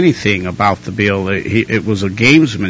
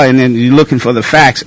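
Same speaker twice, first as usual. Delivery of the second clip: usual speaking voice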